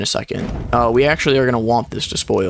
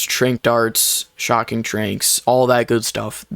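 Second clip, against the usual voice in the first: breathless, pushing the words out; running out of air mid-list; out of breath; much slower than usual. Real, not acted. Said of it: "Whew, I'm running out of breath here".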